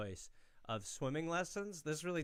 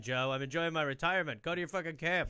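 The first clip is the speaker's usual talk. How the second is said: louder mock scolding dad; a hint of an annoyed father telling his son off; imitating dad; 4 semitones higher, 5 dB louder than usual. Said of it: "He's like".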